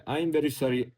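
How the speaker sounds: badly faked French accent; mock apology in a botched French accent; failed French accent. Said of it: "that's not a French accent".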